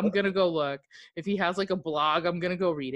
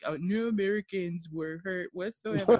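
lightly put-on presidential speech impression; Donald Trump. Host imitating a president's speech for co-host, lightly mimicked. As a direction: do a mild, joking political mimicry. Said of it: "Donald Trump gave where he was like".

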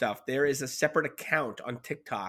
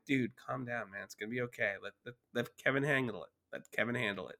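retold calming down; 6 dB quieter than usual. Calming his angry friend, retold.

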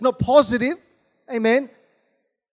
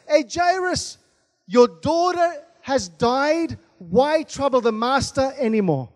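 messengers' announcement; 2 semitones higher, slower than usual. Retold or imitated. Messengers break the news to Jairus, acted announcement. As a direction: call out, then stretch the news out slowly. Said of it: "Messengers came and said".

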